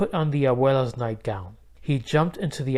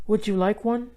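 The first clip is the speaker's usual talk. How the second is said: put-on girl voice; 8 semitones higher than usual. A narrator's reading. Girl voice in read story.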